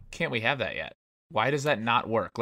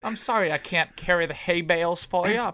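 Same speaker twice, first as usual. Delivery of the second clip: put-on frail breathless old person; 6 semitones higher than usual. Weak son voiced apologizing to Pop.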